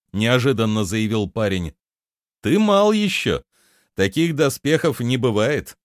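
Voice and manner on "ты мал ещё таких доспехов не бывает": high, louder amused reply; chuckling. A narrator's reading. Prince chuckling at the boy asking for armour. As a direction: laugh off the boy's request. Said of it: "хохотнул Дир".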